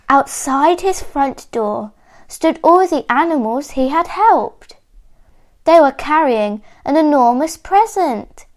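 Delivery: clear, expressive picture-book reading; measured storybook telling with lifted key words; story narration for children. A narrator's reading. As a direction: read it like a story for small listeners.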